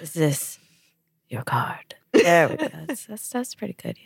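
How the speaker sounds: whispering. Acted. Practising card trick.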